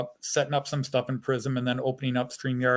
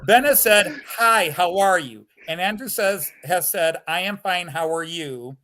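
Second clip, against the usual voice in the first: mock explainer; 3 dB louder than usual. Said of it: "let me explain the conversation".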